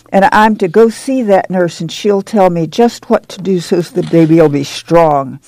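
put-on a young mother telling Ma of the camp, bubbling with excitement; excited girl. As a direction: let the words bubble out, eager and quick. Excited girl's long speech.

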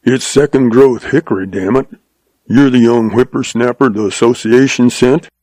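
put-on lightly grumbled old-timer's talk; a hint of a crusty old rancher; grumbling. Old man sizes up the young visitor, grumbling. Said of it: "grumbled the old man".

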